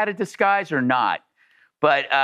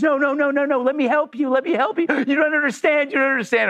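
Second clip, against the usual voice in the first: frantic pleading; 10 semitones higher than usual. Retold or imitated. Neighbor pleading after recognizing him.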